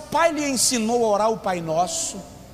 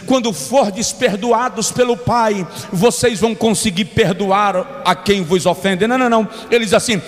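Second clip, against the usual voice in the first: preaching at full force; slower than usual. Acted. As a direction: proclaim the verse, stretching every word. Reads scripture at full force.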